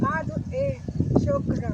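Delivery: high laughing squeal. Real, not acted.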